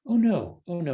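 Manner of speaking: lightly voiced Elwood demurring; gentle denial. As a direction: wave it off kindly as Elwood. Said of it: "He says".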